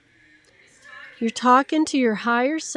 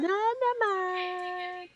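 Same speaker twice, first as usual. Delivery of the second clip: higher, sing-song nonsense like to a puppy; puppy-talk gibberish; 6 semitones higher, 6 dB quieter, much slower than usual. Shown as a demonstration. Instructor babbling to herself like to a puppy dog, higher and sing-song. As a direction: babble sweetly as if to your cat. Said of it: "So just keep going".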